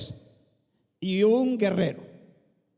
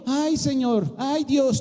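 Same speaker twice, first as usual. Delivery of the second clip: mock whine; 5 semitones higher, 4 dB louder, slower than usual. Mocking the lament, then rejecting it.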